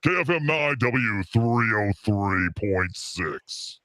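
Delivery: station ID read in a lightly done radio voice. Shown as a demonstration. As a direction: read it like a station call sign. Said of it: "the radio voice".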